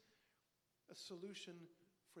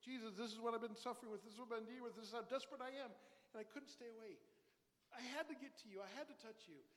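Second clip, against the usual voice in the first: a touch of a pleading woman, louder; desperate woman's plea; 4 semitones higher, 4 dB louder, faster than usual. Retold or imitated. Pastor voicing the healed woman confessing to Jesus, pleading. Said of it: "She told Jesus the whole truth".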